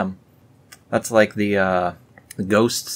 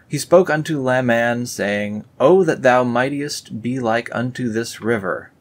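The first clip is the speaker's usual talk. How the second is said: raised, grand verse reading; solemn scripture reading; 4 semitones higher, 4 dB louder than usual. Acted. Reading Lehi's words to Laman, solemn.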